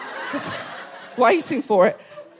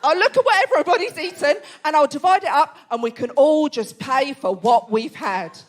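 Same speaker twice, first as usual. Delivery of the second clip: husband's idea; 5 semitones higher than usual. Retold or imitated. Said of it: "He goes".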